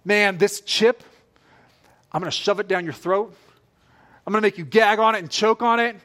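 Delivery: pushy bully growling threats, slowed then rushed; hammed-up bully threatening; mock aggressive threat. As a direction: shove the chip at them, menacing. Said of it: "The enemy doesn't go".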